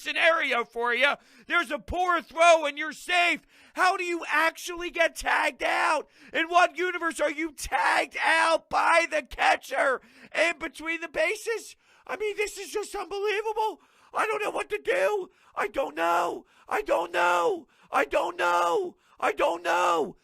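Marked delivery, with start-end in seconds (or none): 3.7-11.8 outraged shout. Real, not acted. Fan ranting at the baserunner. 12.1-20.2 exasperated despair. Real, not acted. Fan at a loss after loss.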